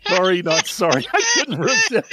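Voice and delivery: laughing it out, pitched high; giggling apology. Real, not acted. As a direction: crack up through the words. Cracking up after the joke.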